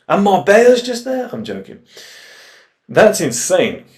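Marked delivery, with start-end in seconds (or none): 0.1-1.3 high, loud mock disbelief; playful incredulous squeal; mock amazed. Real, not acted. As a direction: squeal it out in fake awe.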